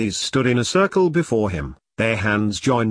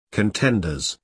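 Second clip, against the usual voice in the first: a measured, theatrical announcement; mildly grand address to assembled contenders; dramatic proclamation; 3 semitones lower than usual. A narrator's reading. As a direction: proclaim it with understated ceremony. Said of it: "proclaimed Boggart, dramatically".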